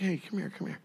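soft retold beckoning; subdued calling over. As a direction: call a child over weakly, softly. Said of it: "moving slow all day".

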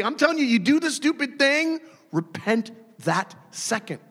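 usual speaking voice

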